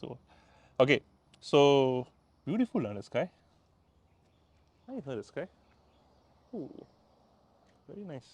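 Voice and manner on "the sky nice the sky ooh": ordinary delivery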